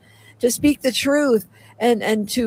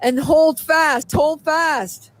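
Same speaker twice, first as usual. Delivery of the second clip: raised, urgent preacher's call; impassioned plea to wake up; fervent preaching; 3 semitones higher than usual. Acted. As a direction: rouse the flock with rising urgency. Relays the Lord's warning message.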